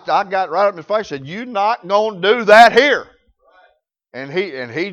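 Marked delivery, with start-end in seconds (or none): 1.3-3.1 raised-voice reenacted warning; firm confrontation. Manager squaring up to a cussing customer, firm warning. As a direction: lay down the law, louder and higher.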